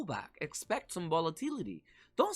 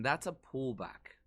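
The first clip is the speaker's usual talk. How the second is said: slow inner thought; 4 semitones lower, slower than usual. Retold or imitated. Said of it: "in my mind, I'm thinking".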